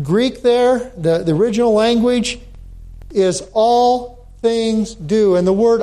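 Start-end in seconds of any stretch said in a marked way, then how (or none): 3.5-5.3 slow, with "all" held at the front; stress on ALL. Shown as a demonstration. Pastor explaining the Greek word order, stress on "all". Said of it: "puts emphasis on the word".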